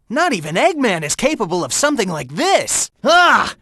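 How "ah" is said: short, higher-pitched "ah" of dismay; frustrated cry. Acted. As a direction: cry out at a failure. Failed to stop it.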